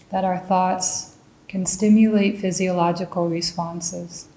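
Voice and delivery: measured meditation guidance with long pauses between phrases; guided meditation. Real, not acted. Meditation teacher leads listeners into mindful raisin tasting, calm guided meditation. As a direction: guide them calmly, leaving room to notice each sensation.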